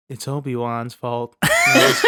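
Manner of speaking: Anakin impression. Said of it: "every day he's like".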